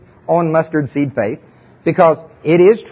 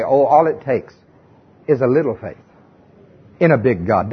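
mild mock of a gentle Sunday-school saying; sweetly pious quote; 6 semitones lower than usual. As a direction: coo it like a comforting cliché. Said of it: "especially when they say".

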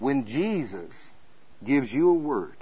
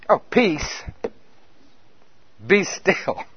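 calm command; 2 semitones higher, much slower than usual. Acted. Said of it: "He rebuked the wind".

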